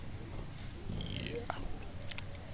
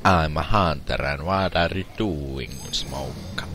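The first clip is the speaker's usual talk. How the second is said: fake Italian accent. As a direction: pretend Italian gamer accent. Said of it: "In Italiano accident. I mean accent".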